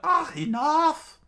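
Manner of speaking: high, drawn-out yell; screamed outburst. A narrator's reading. Nami fed up with the laughing pair, screaming. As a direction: scream for it to stop. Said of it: "Nami screamed out".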